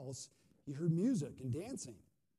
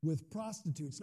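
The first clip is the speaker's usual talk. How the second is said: put-on accusing older son; 8 dB louder than usual. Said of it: "Where are we at here?".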